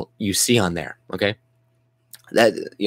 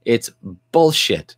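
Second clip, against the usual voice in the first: angry dismissal; slower than usual. Real, not acted. Vlogger rejects systemic racism claim, scornful shout. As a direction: spit the word out.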